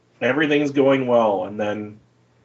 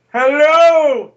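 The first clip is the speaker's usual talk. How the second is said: high loud shouted greeting; shouting; 14 semitones higher, 9 dB louder than usual. Acted. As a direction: belt out the hello. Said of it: "I just shouted".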